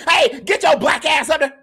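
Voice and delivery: loud mock mama holler; mama yelling. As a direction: holler it like a strict mama calling upstairs. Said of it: "mamas who was telling us".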